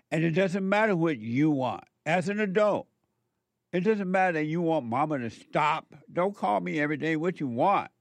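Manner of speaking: mock a smothering mother who won't let go; angry mother. Mother refusing her adult child's wishes, mock angry and insistent. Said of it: "An angry, emotional mother says".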